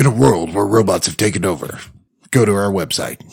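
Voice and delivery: epic trailer narrator; movie trailer voice. Acted. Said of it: "Give a character that can read it".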